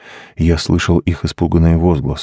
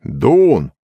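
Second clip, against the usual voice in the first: calling out; 5 semitones higher than usual. A narrator's reading. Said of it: "позвал он".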